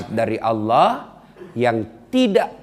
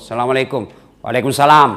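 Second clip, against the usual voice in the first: plain flat greeting; 5 dB louder, faster than usual. Retold or imitated. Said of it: "Coba, coba kalau ditelepon temanmu yang cowok".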